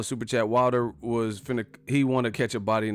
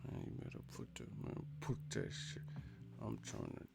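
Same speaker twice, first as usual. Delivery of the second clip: hushed, half-swallowed mock threat; angry mumbling; 19 dB quieter than usual. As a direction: mumble it through a tight, pursed mouth. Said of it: "they turn into a mumble rapper".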